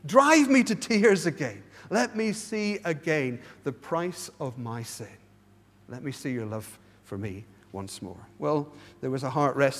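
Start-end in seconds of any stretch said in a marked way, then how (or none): 0.1-8.2 pleading prayer. Shown as a demonstration. Preacher voices a returning believer's prayer, slow and earnest. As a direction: ask God to move your heart, slowly.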